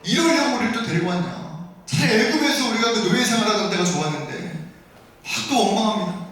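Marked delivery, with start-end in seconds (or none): 0.0-4.3 acted grumbling, slightly raised pitch; resentful complaint. Hungry Israelites grumbling at their leader, resentful complaint. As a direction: imitate a people blaming their leader. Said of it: "또 원망하는 거예요".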